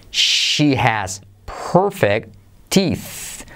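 very slow, careful "She has perfect teeth"; slow demo. Shown as a demonstration. Teacher modelling sentence slowly for learners, very slow. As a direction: drag each word out slowly. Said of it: "slower repeat".

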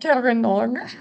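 "Kiranor" pushed up into a rising, put-on sound; playful mock pronunciation. Shown as a demonstration. Co-host echoing the name after hearing the American version, playful exaggeration.

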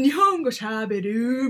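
put-on drawn-out American-accented Japanese, slow; lightly put-on American accent in Japanese; mock American accent. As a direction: imitate an American stretching out Japanese words. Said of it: "外人の、アメリカの人が言う".

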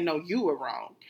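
blunt dad. Retold or imitated. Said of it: "He's gonna say".

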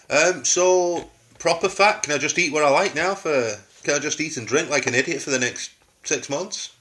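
high and loud, eager pleading; excited. Retold or imitated. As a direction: ask the director giddy with delight. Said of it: "I'd be like".

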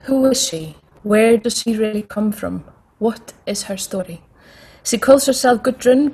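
booming film trailer narrator; dramatic movie trailer voice. Pretend. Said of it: "I'm gonna have to put on my dramatic voice".

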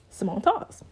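breathy whispered brand name. Acted. Whispered title drop.

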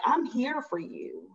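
calm promise of support; gentle reassurance. Retold or imitated. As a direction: say it slowly, like an open hand. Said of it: "I literally said it just like that. In that tone".

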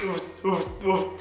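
soft breathy honks; duck call honks. Shown as a demonstration. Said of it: "That's more like the sound".

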